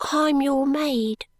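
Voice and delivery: proudly shy, taking her time; soft little girl. A narrator's reading. Charlie announcing herself to Esther, soft and slow. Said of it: "in the same soft voice".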